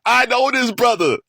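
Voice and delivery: high, loud and delighted; light up like you've spotted an old friend; excited recognition. Retold or imitated. Fan hearing the old Shine again, high and excited.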